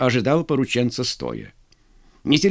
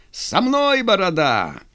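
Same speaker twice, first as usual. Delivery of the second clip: high, drawn-out opening with a smile; cheeky grin in the voice; smiling; 8 semitones higher, slower than usual. A narrator's reading. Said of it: "улыбнулся безусый Хорунжий". (с улыбкой)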